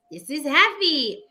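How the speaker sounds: slow, kiddie-lesson happiness; childish happy. Retold or imitated. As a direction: label happiness like a little kid. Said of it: "like we learned emotions when we were little".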